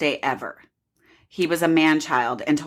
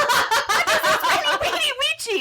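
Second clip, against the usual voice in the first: put-on squealed Russian accent through laughter; very high, hammed-up Russian, V turned to W; bad Russian accent. Russian lady puzzles over a tattoo, laughing mock Russian accent. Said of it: "I cannot do a good Russian accent".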